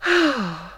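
long, high, weary sigh; heavy sigh. A narrator's reading. Belle sighing for Peter, long and weary. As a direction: let the breath out heavily. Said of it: "Belle heaved a sigh".

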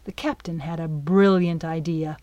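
ordinary delivery, nothing marked

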